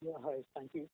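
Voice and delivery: faint, soft-voiced phone question; too quiet to hear. Real, not acted. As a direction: speak softly, barely reaching the listener. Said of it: "speak a little louder".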